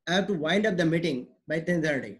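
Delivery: slow, wind said with long ai; example sentence, slow. Shown as a demonstration. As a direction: read the example slowly, clear wind with ai. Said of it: "meeting को मुझे खत्म करना है".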